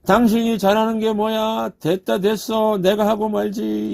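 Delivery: mock sigh of a wife who gives up; fed-up wife. Pastor voicing a wife dismissing her husband's errand, mild mock exasperation. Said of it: "뭐라고 하죠".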